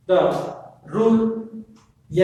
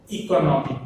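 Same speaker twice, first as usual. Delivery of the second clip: "economic" with the stress on "no"; weight the "no" in "economic"; much faster than usual. Shown as a demonstration. Teacher repeats the word for the class, stress on "no" in "economic". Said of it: "no is the stress syllable".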